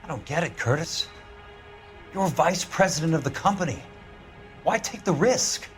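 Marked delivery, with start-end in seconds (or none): 2.1-5.7 high, incredulous challenge; heated demand. Acted. Pressing Curtis on his motive, heated. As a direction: push the question up high, drawing out the end.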